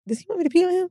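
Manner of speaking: high, puzzled mock question; squeaky baffled aside; confused disbelief. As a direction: ask it like it makes no sense at all. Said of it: "And I'm like".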